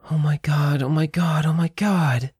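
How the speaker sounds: high, climbing plea of disbelief; lightly acted distress, rising with each repeat; narrator's high, tearful-character voice; distraught girl. A narrator's reading. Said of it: "Virginia began sobbing uncontrollably".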